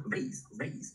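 vase said slowly the American way, rhyming with face; American pronunciation. Shown as a demonstration. Teacher models American English for the class, slow American vase. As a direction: draw out vase with an American long A. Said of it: "美音叫做vase".

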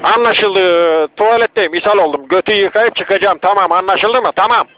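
loud exasperated. Acted. Unit irritated, repeats on radio.

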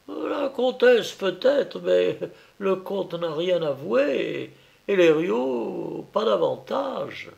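voix plus haute, lente et narquoise; le policier qui savoure son avance; policier ironique. A narrator's reading. (le policier Petit Gris nargue le ministre, voix plus haute et ironique)

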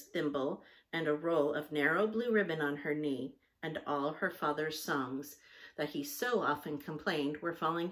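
measured storybook reading; story narration. A narrator's reading. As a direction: read the story aloud in clear phrases. Reads a story aloud.

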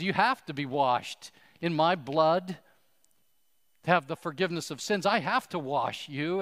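Jesus insisting he must wash them, loud; forceful insistence. Acted. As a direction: press it home to the congregation. Jesus repeats the line with force.

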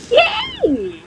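very high, squealed yay; delighted squeal. Real, not acted. Player cheering after surviving the fight, high squeal. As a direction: squeal with joy at the win.

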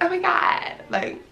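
exasperated, under-the-breath aside; acting out being fed up; mock irritation. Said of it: "irritated, so they just like".

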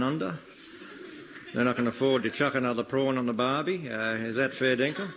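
broad mock Australian accent, hammed-up; comedy Australian accent, lightly done. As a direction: lay on a thick Aussie ocker accent. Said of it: "I'm Australian, mate".

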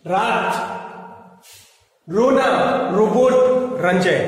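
रात and रोना with a plain tapped र; normal र examples. Shown as a demonstration. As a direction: clear teacher demo of र. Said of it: "ये normal जो सामान्य र जो होता है". (सामान्य र के शब्द)

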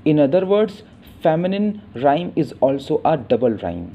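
slow, careful English read; measured textbook reading; slow definition read. Shown as a demonstration. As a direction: spell out the definition slowly. Reads English definition slowly.

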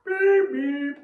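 alien language. Shown as a demonstration. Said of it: "Everyone try that?".

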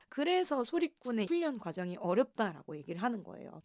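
ordinary delivery

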